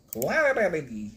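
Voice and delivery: Cla-da-da-dee in a robotic, mechanical voice; imitating a synth voice. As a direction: play back the weird synth reading. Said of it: "this one sounds like some kind of electro synth voice".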